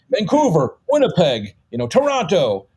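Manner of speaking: put-on quick-change Canadian city accents; imitating switched accents. Showing how he switched between Canadian regions, mock accents. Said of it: "he would just switch the accent".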